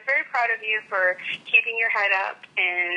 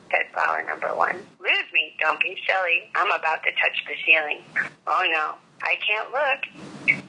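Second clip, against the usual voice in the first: put-on gentle read-aloud of a children's book; storybook reading; 2 semitones lower than usual. A narrator's reading.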